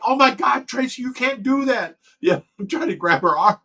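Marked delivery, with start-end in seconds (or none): 0.1-2.0 high, loud panicked cry to stop her; loud alarmed outcry; alarmed shout. Retold or imitated. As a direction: yell in shock to stop his wife. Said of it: "I'm like".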